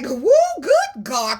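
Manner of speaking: high, slow joyful whoop; excited holler. Real, not acted. Shouting praise to God over the card reading. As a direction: let the praise burst out. Tarot reader gets excited.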